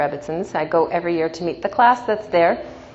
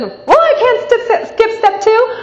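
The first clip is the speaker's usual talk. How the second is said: much higher, louder, slow whiny protest; lady's protest; 6 dB louder than usual. Retold or imitated. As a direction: whine it as the stranger. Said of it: "She said".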